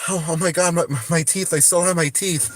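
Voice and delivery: mock-panicked relief, half laughing; acted waking relief. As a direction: replay waking up and finding all is well. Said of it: "all of a sudden I wake up and I'm like".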